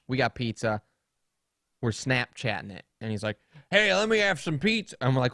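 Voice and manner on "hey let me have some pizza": lightly voiced grumpy old man, higher; mock an impatient grandpa butting in; a hint of cranky grandpa. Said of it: "He's an angry man".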